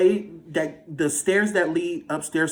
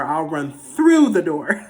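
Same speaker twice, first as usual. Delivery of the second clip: laughing; 8 dB louder, slower than usual. Real, not acted. Loud laughing.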